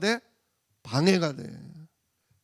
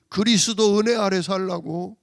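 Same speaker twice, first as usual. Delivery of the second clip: preaching louder; 2 semitones higher, 6 dB louder than usual. Acted. Call and response.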